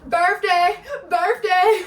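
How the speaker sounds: loud, high prompting shout; imitated calling out. Boatman calling out whenever she wouldn't, loud imitated shout. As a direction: call it out like an insistent reminder.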